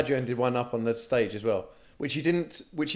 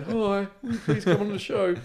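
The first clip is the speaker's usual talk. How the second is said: polite ask; 8 semitones higher than usual. Retold or imitated. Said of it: "I'm used to texting going".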